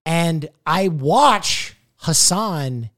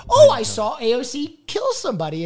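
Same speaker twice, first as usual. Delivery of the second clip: mock accusation; 7 semitones higher than usual. Retold false accusation.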